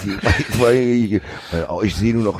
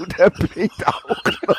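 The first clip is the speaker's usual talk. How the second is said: mock dramatic echo; 7 semitones higher, slower than usual. Echoing in laughing mock voice.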